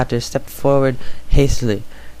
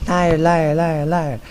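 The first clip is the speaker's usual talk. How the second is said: furious shout; 4 semitones higher, slower than usual. A narrator's reading. Arya attacks her sister.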